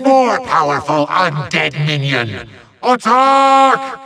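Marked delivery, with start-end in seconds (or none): 2.8-4.0 high, held attack cry; battle command. Acted. Villain sends powerful minion at hero, high commanding yell.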